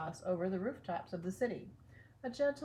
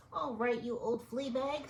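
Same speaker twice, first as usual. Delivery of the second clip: higher squeaky mouse officer; 5 semitones higher than usual. Acted. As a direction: squeak it out like a tiny commander. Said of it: "I gotta use my mouse voice".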